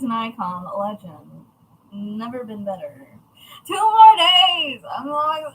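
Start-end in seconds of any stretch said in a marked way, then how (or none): 3.7-5.5 excited squeal. Real, not acted. Excited about upcoming visit.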